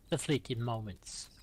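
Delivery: measured opening line of verse; poem recital. Acted. Poet reads for a late mum, poem recital. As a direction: begin reciting with a steady lilt.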